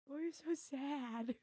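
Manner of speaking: high, slow doting voice; pet talk. Real, not acted. Coos to the dog.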